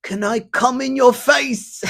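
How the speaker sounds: hammed-up sleazy request; creepy old man. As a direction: ask it like a leering creep. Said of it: "Then he says".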